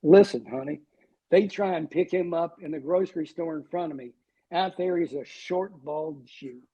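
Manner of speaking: light imitated Southern accent. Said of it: "My wife has a Southern accent".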